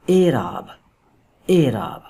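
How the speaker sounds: اعراب begun with a long closed 'e', 'AY-raab'; closed 'ay' vowel opening اعراب; correct pronunciation. Shown as a demonstration. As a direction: model اعراب as 'ay-raab', falling at the end. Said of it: "یہی تلفظ اس لفظ کا ٹھیک ہے".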